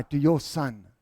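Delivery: low, pointed weight on "your"; stress on YOUR. Acted. Older brother disowning his brother to the father, stress on "your". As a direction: lean on "your" to disown him. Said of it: "did you hear the language he says".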